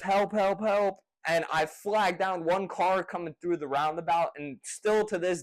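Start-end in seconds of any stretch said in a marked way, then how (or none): 0.0-1.0 mock scream for help. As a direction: imitate screaming for help without full volume. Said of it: "screaming like this".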